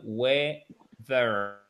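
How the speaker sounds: "weather" with the tongue against the upper teeth; th sound. Shown as a demonstration. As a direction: push "weather" out through the teeth. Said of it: "la langue sur les dents du haut".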